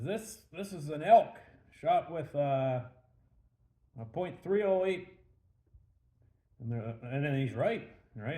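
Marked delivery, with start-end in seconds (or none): 0.0-5.1 louder, higher acted declaration; confident announcement. Hunter names the animal to the bar, confident. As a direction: imitate a hunter proudly calling his guess.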